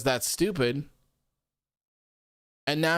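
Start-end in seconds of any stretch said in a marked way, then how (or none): 0.0-0.8 mock whine. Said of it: "comes out here and cries and says".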